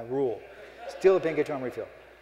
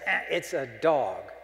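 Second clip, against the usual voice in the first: mock disappointment; slower than usual. Mocking the pen's writing.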